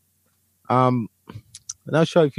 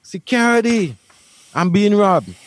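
higher-pitched mock yell of an older woman calling security; older white lady yelling at a store worker, higher mock shriek; imitating a yelling lady; 7 semitones higher than usual. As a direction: play a panicked old lady crying for security. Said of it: "She yells".

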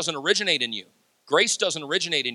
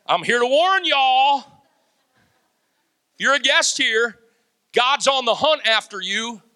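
stern warning; 6 semitones higher, 4 dB louder than usual. Real, not acted. Preacher warning the congregation.

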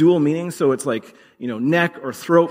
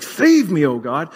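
urgent cry. Shown as a demonstration. Preacher acting a desperate plea, urgent cry. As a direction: cry it out like drowning. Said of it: "To me, it's something more guttural".

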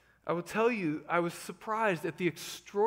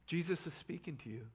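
hushed, breathy whisper to the congregation; 8 dB quieter than usual. Real, not acted. Preacher whispering comfort to his church. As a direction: let it drop to a whisper, intimate.

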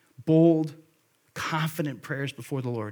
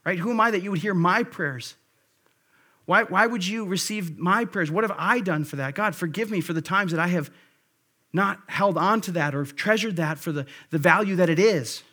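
humble prayer; 3 semitones higher than usual. Shown as a demonstration. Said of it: "then what's my response?".

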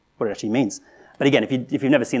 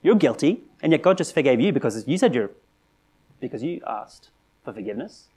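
accusing challenger; 3 semitones higher than usual. Retold or imitated. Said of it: "the accusation goes like this".

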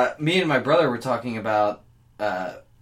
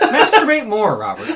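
laughing; 9 semitones higher, 10 dB louder than usual. Real, not acted. Teasing through laughter.

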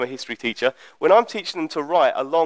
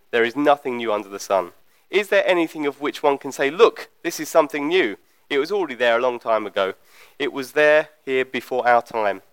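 measured Bible reading aloud; scripture reading; 3 semitones lower than usual. Acted. Preacher reading the opening verses to a congregation, measured scripture reading. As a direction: read the verses out evenly, with deliberate phrasing.

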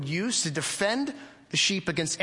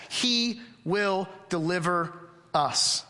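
slow, each word sure, He leaned on; confident; 2 semitones higher, much slower than usual. Shown as a demonstration. A preacher echoing Paul to his church, confident. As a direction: say it like it cannot fail. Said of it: "You hear the confidence in that?".

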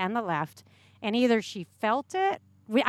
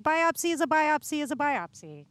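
mock dismissive; 5 semitones higher than usual. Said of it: "I'm like".

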